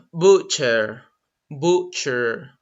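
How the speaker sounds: "butcher" spoken low and careful with a silent T; slow teacher demo of "butcher"; correct pronunciation. Shown as a demonstration. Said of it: "That's the correct pronunciation".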